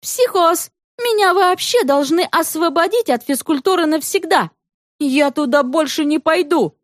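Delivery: put-on high defiant girlish yelling. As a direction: stamp your foot and yell it high. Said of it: "крикнула Света".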